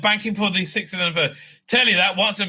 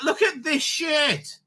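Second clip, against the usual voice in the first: slow scorn; 8 semitones higher, much slower than usual. Real, not acted. Scorning a product.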